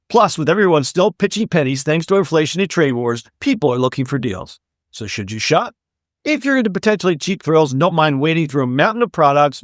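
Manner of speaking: lively podcast news read; scripted segment read. Acted. Host presents the sale story to listeners, scripted read. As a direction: read the story out with upbeat emphasis.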